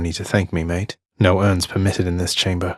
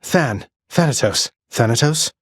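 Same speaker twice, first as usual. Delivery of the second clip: calling out; 6 semitones higher than usual. Acted. Hero calling out to his ally Thanatos. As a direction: call his name across the fight. Repeated name callouts.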